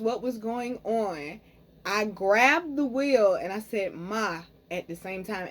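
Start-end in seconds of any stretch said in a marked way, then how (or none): 3.9-4.4 calm. Retold or imitated. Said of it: "And I said it so calm".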